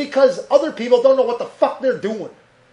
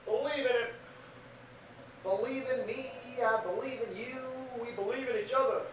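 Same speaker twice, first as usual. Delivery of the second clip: much softer, hushed preachy voice; soft hushed sermon, half joking; mock preacher hush; 3 semitones higher, 7 dB quieter than usual. Podcaster mock-preaches to listeners about believing, much softer and hushed.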